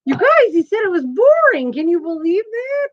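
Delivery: squealing in mock disbelief at her son; mock outrage. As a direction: act shocked for the viewers.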